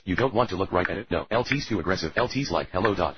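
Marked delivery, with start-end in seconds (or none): 2.7-3.2 lightly voiced goofy greeting; a hint of a cartoon voice; silly impression. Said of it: "That's my impression".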